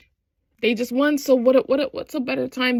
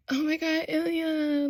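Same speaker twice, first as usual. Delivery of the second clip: a mock teary whimper; imitating crying; 6 semitones higher, 6 dB quieter than usual. Injured Shane to Ilya in hospital, mock teary. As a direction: play it lightly tearful, half-hearted sob. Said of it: "Shane is, like".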